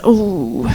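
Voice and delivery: a drawn-out crowd-style "Ooh"; mock crowd ooh. Host voicing the audience's reaction, mock crowd ooh. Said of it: "And the crowd says".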